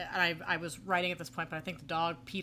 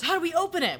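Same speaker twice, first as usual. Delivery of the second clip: goofy sitcom voice; 11 semitones higher, 8 dB louder than usual. Retold or imitated. Norm voiced, silly joke.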